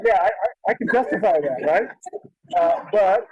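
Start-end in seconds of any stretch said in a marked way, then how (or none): 0.0-1.9 mock self-justifying. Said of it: "I'm like".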